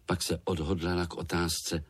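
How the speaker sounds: usual speaking voice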